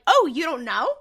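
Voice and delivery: imitated catty question, loud opening Oh; bitchy. Anna taunting Dean in a retelling, funny bitchy. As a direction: needle them with mock surprise. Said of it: "says it in a really funny, bitchy way".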